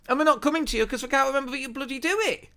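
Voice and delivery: fast, high-pitched and worked up; voice rising high. Real, not acted. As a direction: let the pitch climb as you get emotional. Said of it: "Look at my voice getting all high-pitched".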